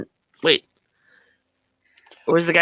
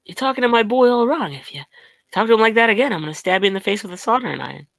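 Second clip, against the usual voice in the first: Nicolas Cage impression; 2 semitones higher, faster than usual. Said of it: "Nicolas Cage".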